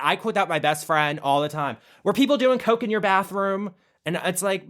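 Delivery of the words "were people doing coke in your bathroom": quoting Lisa Rinna. Retold or imitated. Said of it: "I still quote that".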